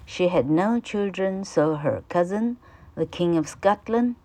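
careful, clear classroom reading; reading the passage aloud to students; textbook read-aloud. Acted. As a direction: read it out for the pupils. Teacher reads English textbook.

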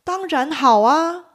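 爽快地答应; readily agreeing. Shown as a demonstration. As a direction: accept the date gladly and at once. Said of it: "马上爽快的答应".

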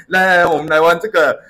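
put-on a kid eager to start a game; lightly voiced excited kid; excited child. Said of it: "他很兴奋".

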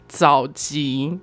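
早级 said with a nasal ng sound; correct Taiwanese pronunciation. Shown as a demonstration. 告诉听众早前的台语正确读法，早级带嗯的鼻音. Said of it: "要有那个嗯的音".

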